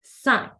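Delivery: cinq ending on a clear K; cinq, sound the last letter as K; cinq, final K said. Shown as a demonstration. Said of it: "it sounds like a K".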